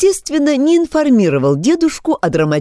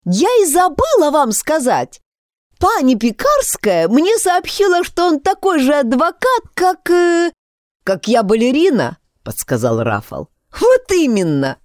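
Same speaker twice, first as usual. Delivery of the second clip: put-on excited girl voice; 10 semitones higher than usual. Excited girl blurting news.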